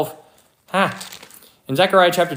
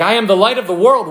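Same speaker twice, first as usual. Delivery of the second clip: higher and louder, a proclaimed call; crying out; 5 semitones higher, 4 dB louder, faster than usual. Retold or imitated. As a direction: call it out to the crowd. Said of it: "he's, like, crying out to people".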